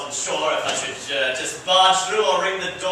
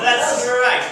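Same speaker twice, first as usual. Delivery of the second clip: booming entrance; 5 semitones higher, 4 dB louder than usual. Acted. Professor Plum's loud entrance.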